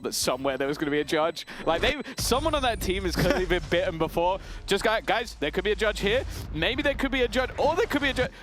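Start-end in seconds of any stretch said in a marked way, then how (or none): 4.7-8.3 high, anxious mock callout; nervous teammate voice. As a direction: fret like a jumpy teammate. Caster mimics a nervous team's comms.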